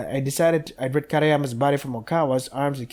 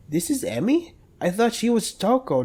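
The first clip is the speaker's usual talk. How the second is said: pitched-up confused surprise; surprised; 8 semitones higher than usual. Real, not acted. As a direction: caught off guard, realizing. Confused realization about characters.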